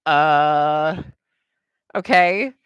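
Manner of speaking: a clerk at the end of her patience; exasperated. Retold or imitated. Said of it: "I'm like".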